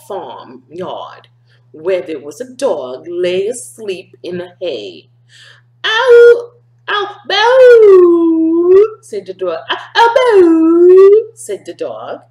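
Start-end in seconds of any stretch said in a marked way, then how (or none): 5.8-11.3 high, loud barking; the dog wakes in the hay, barking high and loud. Acted. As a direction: bark it out like a dog. Dog barks.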